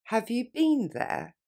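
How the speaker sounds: slow and clear for the learner; slowly. Shown as a demonstration. Teacher modelling for students, slow. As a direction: have you been there said slowly. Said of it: "Plus lentement".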